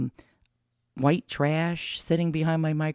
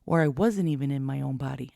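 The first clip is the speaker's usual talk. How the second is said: whistling nose. Real, not acted. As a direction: air whistling through the nose. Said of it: "I noticed my nose is whistling right now".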